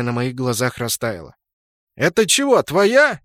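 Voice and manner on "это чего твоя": higher, louder amazed question; startled ask; surprised. A narrator's reading. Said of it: "удивлённо спросил Винтик".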